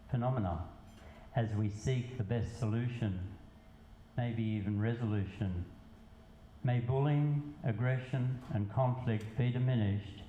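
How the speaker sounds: measured poetry reading with pauses between lines; spoken verse, evenly paced; poem recitation. Acted. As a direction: recite it line by line, letting each phrase land. Resumes poem after aside.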